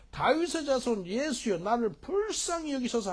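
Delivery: high-pitched pleading cry; crying out insistently. Acted. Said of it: "더욱 심히 소리질러 가로되". (높은 목소리로 간절히 부르짖는 애원)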